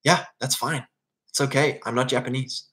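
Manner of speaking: softly conceding; calm acceptance. Acted. Outsider in Japan accepting their preference, quietly calm. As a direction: answer the outrage softly, letting it go. Calm answer to the angry complaint.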